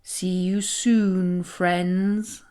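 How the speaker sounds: slow, lightly voiced sly spider; a hint of a grinning villain; sly grin. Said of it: "he grinned".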